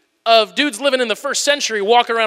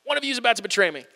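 offhand aside; 6 dB quieter, faster than usual. Retold or imitated. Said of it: "just a little bombshell".

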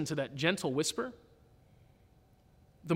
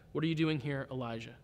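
softly voiced, lightly lowered question; gentle whisper; 4 semitones lower, 5 dB quieter than usual. God's voice speaks to Elijah at the cave, gentle whisper. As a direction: let the voice sink away on the name. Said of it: "the sound of a gentle whisper".

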